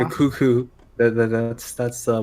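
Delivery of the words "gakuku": "Gakuku" with a bouncy extra syllable, like a robot voice; TTS mispronunciation. Retold or imitated. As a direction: imitate the text-to-speech mangling "Gaku" as "Gakuku". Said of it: "what the T T S says for Gaku is Gakuku".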